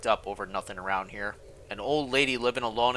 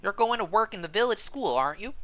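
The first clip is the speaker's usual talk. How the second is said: put-on a friendly old servant, pitched up; old housekeeper; 10 semitones higher than usual. Housekeeper Gilberte greeting the newcomer, high old woman voice.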